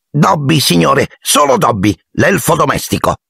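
a humble elf honoured to meet his hero; eager little house-elf. A narrator's reading. Dobby introduces himself.

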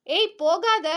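put-on shouting boy. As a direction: yell after the running girl. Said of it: "ரணியன் கத்தும் போதே". (நிற்கச் சொல்லி கத்தும் சிறுவன்)

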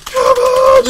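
straining shout. Real, not acted. Intense race finish, straining.

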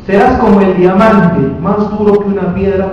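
slow, loud declamation; proclaimed scripture. Acted. Preacher reading God's promise to the prophet, proclaimed. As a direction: declare it weightily, word by word.

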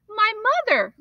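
put-on boy frantically reminding the storekeeper; frantic. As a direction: cry it out in panic. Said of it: "reminded the storekeeper frantically".

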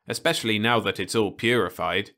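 talking through a bite of apple; chewing while speaking; mouth full. Acted. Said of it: "through a full mouth".

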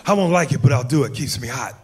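a Pacino cop warning a criminal; Al Pacino impression. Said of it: "doing Al Pacino".

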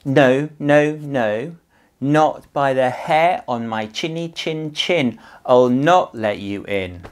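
loud, high defiant refusal; defiant pig. Acted. First pig refusing the wolf, high and loud. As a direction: shout it back like a brave little pig.

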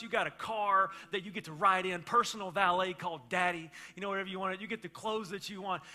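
a hint of a preachy father counting your blessings; mock grandpa rant about what the kids already have; grumpy old guy lecture. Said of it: "I'm turning into that old guy, just like my father".

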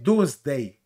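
DOOMSDAY with power on DAY; stressed last syllable. Shown as a demonstration. Teaching viewers English "Doomsday", forceful final syllable. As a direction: lengthen "Dooms" and land firmly on "day". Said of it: "se da potencia en la última sílaba".

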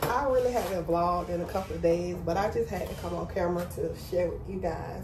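hushed and emotional, real feelings. Real, not acted. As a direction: talk softly through real emotion. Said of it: "I'm so emotional right now".

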